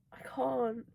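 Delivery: breathy excited whisper. Real, not acted. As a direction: whisper it, overwhelmed. Overwhelmed by a romance scene.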